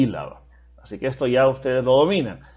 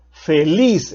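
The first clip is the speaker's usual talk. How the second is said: "Feliz" with the weight on -liz; teacher's example, leaning on the end of "Feliz"; final-syllable stress. Shown as a demonstration. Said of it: "llevan la mayor fuerza de voz en la última sílaba".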